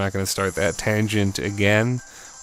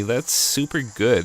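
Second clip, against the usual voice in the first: put-on valley girl voice; slower than usual. Shown as a demonstration. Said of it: "I sound like a valley girl".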